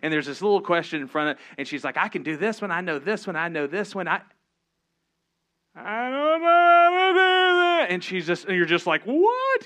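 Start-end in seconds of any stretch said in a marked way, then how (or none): 2.0-7.9 mock whining child. Daughter whining in a story. 9.0-9.7 a very high, loud, stretched What; the parent's total bewilderment, pitched way up; a hammed-up baffled cry; mock baffled.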